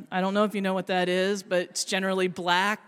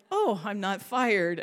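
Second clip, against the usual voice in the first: relieved. Retold or imitated. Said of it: "I'm like".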